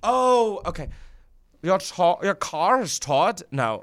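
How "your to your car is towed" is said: put-on German accent. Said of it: "do a German accent".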